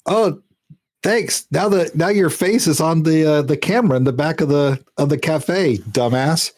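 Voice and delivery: high, mocking thanks; smug mock threat; sarcastic taunt. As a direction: needle him with fake gratitude. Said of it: "I'll just say".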